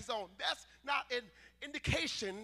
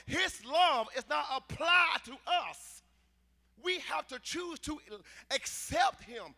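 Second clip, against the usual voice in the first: measured, forceful sermon delivery; emphatic preaching; 3 dB louder than usual. Real, not acted. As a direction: preach it with weight on key words. Preaches to a congregation.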